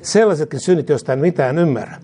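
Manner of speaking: fervent call-and-response prayer, falling ends; led prayer. Real, not acted. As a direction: lead the congregation line by line, each phrase said twice. Leads repeat-after-me prayer. (esirukous toistettavaksi)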